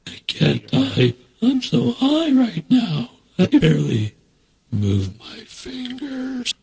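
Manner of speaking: slow, high stoned drawl; stoner. Acted. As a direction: play it wasted and giggly. Stoned sound bite.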